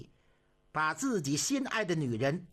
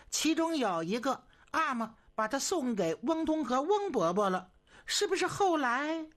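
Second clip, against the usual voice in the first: higher, lightly voiced eager young consort; 7 semitones higher than usual. A narrator's reading. Consort eagerly tells the emperor about the toy train, higher. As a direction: play the girl chattering brightly. Zhenfei's eager story in high voice.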